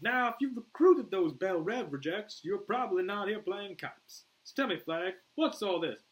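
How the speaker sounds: high, loud, unhurried Australian; Australian accent. Acted. Boomer questions Flag about the mission, Australian accent. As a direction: quiz him in a broad Australian accent.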